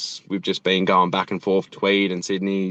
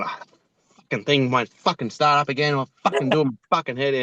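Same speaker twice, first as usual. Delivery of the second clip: put-on higher, fast grumbling old bloke; mock angry Aussie tradie; 6 semitones higher than usual. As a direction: rattle it off like a cranky old bloke. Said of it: "maybe angry, going".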